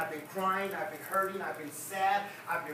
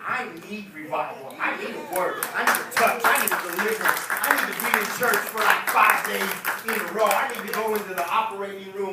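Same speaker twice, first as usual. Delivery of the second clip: much louder, shouted declarations; preaching full force; 8 dB louder than usual. Real, not acted. Preacher calling out his need to the church, shouting. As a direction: cry it out to the congregation.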